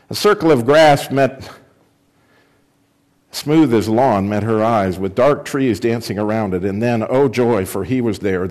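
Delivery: lively read-aloud to a church group; reading a children's book aloud; story reading. Acted. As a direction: bring the story to life for listeners. Reads Prince Caspian aloud.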